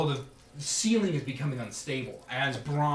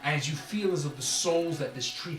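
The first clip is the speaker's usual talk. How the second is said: scene setting. A narrator's reading. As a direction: paint the heat for the table. GM narrates freed souls.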